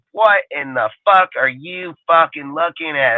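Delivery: mock a coach's exasperated yell, without full volume; imitating yelling coach. Coach to quarterback on the sideline, imitated yelling. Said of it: "yelling at that dipshit".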